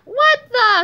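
loud, high startled yell; shocked scream. A narrator's reading. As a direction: scream it in outraged surprise. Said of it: "screamed Mister Krupp".

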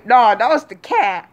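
breathy, deadpan lie; mock whispered excuse. Drunk cousin excusing himself to the parents, whispered. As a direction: whisper the excuse like it's nothing. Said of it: "has the nerve to say".

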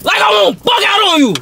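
sharp, loud warning. Acted. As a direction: snap it out loud. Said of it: "Why is you yelling?".

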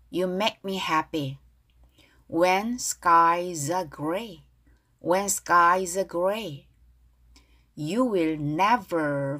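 slow, clearly spaced English lyric lines; pronunciation model reading. Shown as a demonstration. Teacher leading learners in reading lyrics aloud, slow pronunciation model. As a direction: model each phrase slowly for learners to repeat. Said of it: "큰 소리로 발음 따라하겠습니다".

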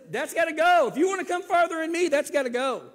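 loud, fast, rising preacher's declaration of God's command; forceful command. Retold or imitated. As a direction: hammer it home as God's word.

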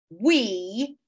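sharp indignant echo; angry. A narrator's reading. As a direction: throw the word back accusingly. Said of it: "giving him an angry glare".

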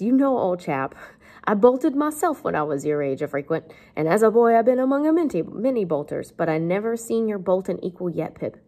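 lightly acted rustic man, emphatic; a hint of folksy astonishment; Joe. Teacher voices Joe marvelling at Pip's bolting, lightly put-on. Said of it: "Joe says".

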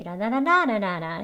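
"라라라라라라" tracing the sentence's tune; melody of the sentence in "라라라라라라"; intonation on nonsense syllables. Shown as a demonstration. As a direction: hum out the ups and downs on la-la syllables. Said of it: "이렇게 되는 그 억양도".

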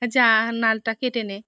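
calling out an order like a mother-in-law; loud order. Retold or imitated. Mother-in-law orders fetching stalks. (শাশুড়ির মতো জোরে, ধীরে হুকুম)

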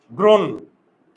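গ্রন্থ very slow, "gron", long gap, "tho"; broken-up word. Shown as a demonstration. Teacher breaking the joined letters, গ্রন্থ in two separated slow syllables. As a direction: split গ্রন্থ at the conjunct with a pause between. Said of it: "যুক্ত বর্ণটা ভেঙে দিলাম".

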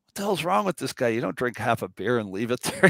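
imitating an exasperated buddy; mock indignation. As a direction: play baffled outrage for laughs. Retelling buddy's outrage at half-drunk beer.

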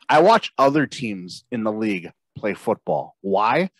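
wrestling promo. Acted. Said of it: "Bodie cuts a promo on Matt Nagy".

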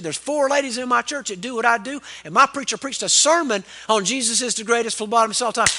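lightly mimicked fired-up testimony; a touch of excited preaching, as a retold quote; imitated preaching. Church woman boasting of her preacher's sermon, lightly imitated preaching. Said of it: "she went to preaching right then".

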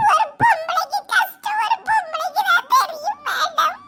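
crying, begging the madam to let them go; tearful pleading. Acted. Girl begs the policewoman to let them go, tearful. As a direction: weep and plead for mercy.

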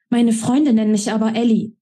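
a hint of a young woman, firm on Freunde; lightly voiced Ellie. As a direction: state it with stubborn pride. Ellie insists on her nickname.

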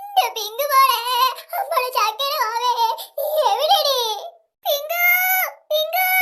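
half-laughing mock sob for the lost girl; wailing for lost child. Mother calling out for her missing Pinku, mock sobbing. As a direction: call her name through comic tears.

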